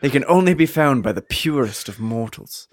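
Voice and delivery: grand movie-trailer narration; epic fantasy narrator. Acted. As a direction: read it like an ancient legend. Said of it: "I faded in and out of, uh, an accent".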